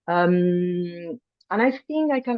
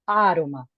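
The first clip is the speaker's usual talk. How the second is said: aroma with the accented first syllable said with more force; stress accent. Shown as a demonstration. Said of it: "with more force".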